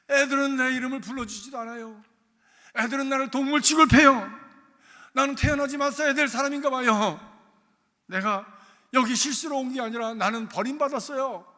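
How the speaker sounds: put-on loud, tearful boy's complaint; sobbing child. Bullied boy sobs his complaints out to God, loud and tearful. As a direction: pour out the hurt while weeping. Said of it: "엉엉 울면서".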